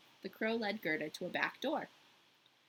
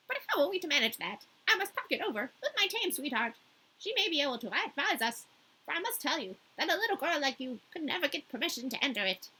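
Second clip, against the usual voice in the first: a lightly voiced chatty crow, higher; 5 semitones higher than usual. The crow answering Gerda in a light crow voice. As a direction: croak it out as a talkative crow. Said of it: "difficult to enunciate in this voice".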